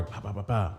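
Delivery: soft-voiced mimicked knocks; four even spoken knocks, understated; imitated harder knocking. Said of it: "a little harder".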